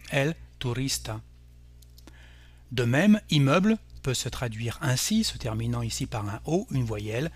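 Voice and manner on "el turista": el turista stressed on RIS; stress on second-to-last syllable. Shown as a demonstration. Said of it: "On accentuera donc l'avant-dernière syllabe".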